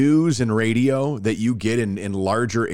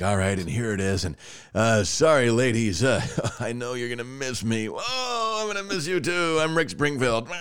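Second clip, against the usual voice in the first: lightly voiced corny radio host, softer, breaking into laughs; playful hint of a pop singer crooning; mock cheesy DJ; 3 dB quieter than usual. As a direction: ham up a cheesy sign-off. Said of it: "I should be like".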